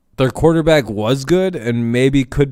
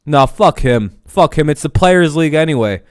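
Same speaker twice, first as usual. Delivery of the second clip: real anger; 3 semitones higher, 5 dB louder than usual. Real, not acted. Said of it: "that makes me so angry".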